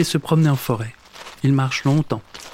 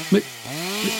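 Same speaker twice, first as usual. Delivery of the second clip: stammering; 5 semitones higher, 6 dB quieter than usual. Acted. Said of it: "bredouille Monsieur Marcelin".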